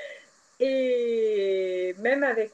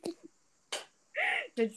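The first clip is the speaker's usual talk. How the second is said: laughing; 13 semitones higher, much slower than usual. Real, not acted.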